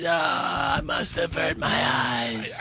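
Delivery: high, slow melodramatic wail; mock horror. Reacting to the little Goonies dance, hammed-up horror. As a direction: wail it as if the sight is unbearable.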